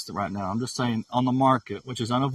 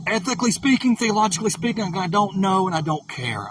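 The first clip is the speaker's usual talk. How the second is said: mocking dismissal; 7 semitones higher, 3 dB louder than usual. Real, not acted.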